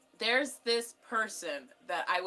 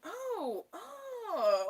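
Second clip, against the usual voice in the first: high, drawn-out oohs; retold intrigued cooing; 13 semitones higher than usual. Telling viewers how the song hit, intrigued cooing. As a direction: coo as if a song just grabbed you. Retells being hooked by song.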